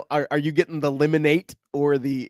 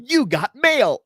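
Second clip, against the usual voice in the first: high-pitched mock announcement yell; retold shout; 12 semitones higher, 4 dB louder, much slower than usual. Co-host re-enacts shouting at a neighbor's house, a high retold shout. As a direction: call it out in a raised, high voice. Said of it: "I just shouted out loud".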